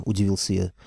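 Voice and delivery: plain reading voice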